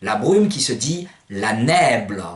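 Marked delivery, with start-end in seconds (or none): 1.3-2.2 LA NÈBLE with open è and unstressed final o. Shown as a demonstration. Teacher naming mist, Provençal open-è pronunciation. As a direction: stress nè in nèble, as "NÈ-blo". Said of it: "Avec un bel accent grave sur le E".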